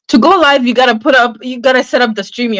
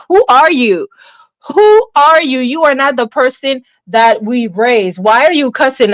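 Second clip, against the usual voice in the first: higher-pitched mock parental disbelief; surprised parents; 3 semitones higher than usual. Parents hearing their child cuss, acted surprise. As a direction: imitate parents taken aback. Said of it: "they would be surprised".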